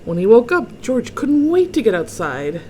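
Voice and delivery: expressive storybook narration; story read-aloud. A narrator's reading. Reader tells children of George's bug dreams, expressive storytelling. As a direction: relish each item for young listeners. Reads picture book to children.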